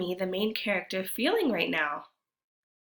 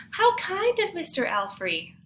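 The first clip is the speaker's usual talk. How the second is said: grandma's voice; 10 semitones higher, 5 dB louder than usual. Acted. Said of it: "Grandma says".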